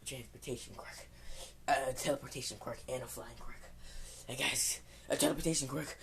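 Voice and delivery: soft, creepy Yandere-style whisper of an answer. Acted. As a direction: sound like an obsessed stalker girl, quietly. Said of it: "I'm saying that in a creepy voice".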